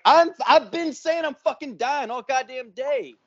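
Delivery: high-pitched retold complaint; acted exasperation at being doubted; exasperated protest.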